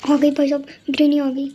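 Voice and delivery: loud frightened cry; panicked shout. Real, not acted. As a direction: yell it as she appears. Granny suddenly arrives. (घबराकर चिल्लाना)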